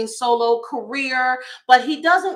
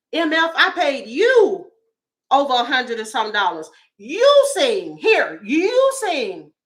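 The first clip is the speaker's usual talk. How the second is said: mock scolding; 3 semitones higher, 4 dB louder than usual. Scolding singer, paid ticket.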